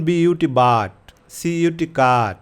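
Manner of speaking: bit and cut said slowly with a clear "আ" sound; teacher slowly modelling "বাট" and "কাট"; slow pronunciation demo. Shown as a demonstration. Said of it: "দুই পাশে consonant এবং মাঝখানে যদি ইউ থাকে".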